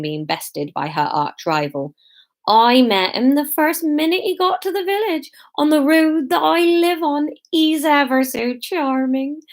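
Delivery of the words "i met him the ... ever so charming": relaxed, luxurious. A narrator's reading. Iris relishing superiority over her rival, luxuriously smug. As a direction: savour your superiority, slowing at the end. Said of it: "in a relaxed, luxurious voice".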